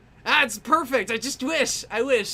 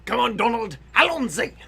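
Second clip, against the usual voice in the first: playful catchphrase call; 7 dB louder than usual. Pretend.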